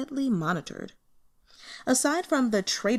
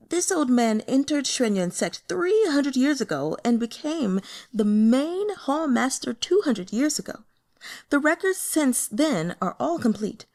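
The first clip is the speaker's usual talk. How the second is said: put-on old altar master; 5 semitones higher than usual. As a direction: lift the voice to play the boastful hall master. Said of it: "Altar Master Yuan might have referred to himself as an old man".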